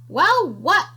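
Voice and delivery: high coy "Well, what?"; coy creature. Acted. Creature teasing the piglet, high and coy. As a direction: play dumb. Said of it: "replied the small creature".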